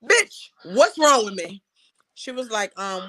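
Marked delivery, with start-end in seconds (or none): 0.0-1.6 slow, louder, each word pressed out; exasperated demand. Retold or imitated. Patient demanding the truth from her doctor, slow exasperated demand. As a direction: spell it out, fed up and demanding.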